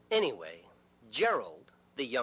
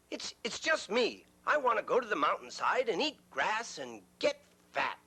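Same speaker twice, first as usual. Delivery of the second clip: somewhat higher, hesitant goat voice; middle goat; 4 semitones higher than usual. Acted. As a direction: say it a little nervously.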